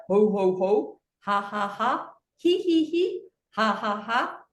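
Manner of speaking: switching hee ha ho laughs; mixed laugh sounds. Shown as a demonstration. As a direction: jump between pitches. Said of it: "make the sounds depending where your hand is".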